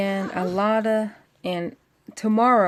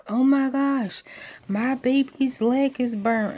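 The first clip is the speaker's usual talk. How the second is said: mildly panicked, higher-pitched quote; retold panic; 5 semitones higher than usual. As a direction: imitate a worried mother's alarm, lightly. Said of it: "called in a big old panic".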